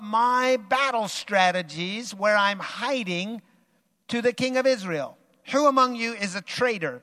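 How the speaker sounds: enraged king. Acted. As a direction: demand answers from the officers.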